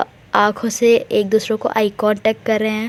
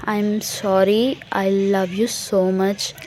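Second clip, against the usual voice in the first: slow, softer, drawn-out; soft tender apology; 3 semitones lower, 5 dB quieter, much slower than usual. Retold or imitated. Tara apologises to Misha, slow and tender. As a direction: let the sorry melt into love.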